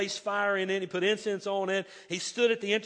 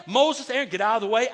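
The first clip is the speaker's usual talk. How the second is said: loud booming command; 5 dB louder than usual. Retold or imitated. Preacher voicing God to Moses and Aaron, booming. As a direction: thunder it out.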